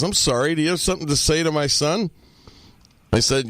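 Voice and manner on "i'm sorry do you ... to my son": higher, fast, affronted challenge; affronted father challenging the stranger who scolded his son; indignant dad. Retold or imitated. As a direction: play the offended father squaring up. Indignant dad confronts the speaker.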